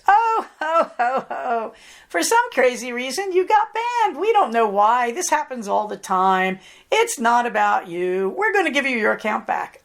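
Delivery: lightly sending up a chirpy support agent; mock Twitter voice. Mocking Twitter's cheerful ban message, lightly voiced jolly helper. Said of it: "their reestablishment sounded like this".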